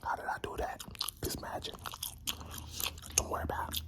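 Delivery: whispering while chewing gum. Real, not acted. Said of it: "a trick with the bubble gum".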